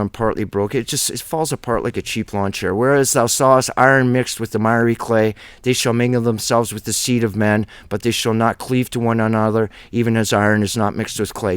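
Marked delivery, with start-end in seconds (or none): 2.7-11.6 solemn King James scripture read aloud. Acted. Preacher reads the prophecy of clay and iron, solemn scripture reading.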